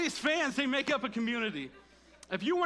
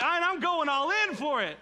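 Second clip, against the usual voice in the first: retold overexcitement; 7 semitones higher, 5 dB louder than usual. Relives his emotional anthem moment.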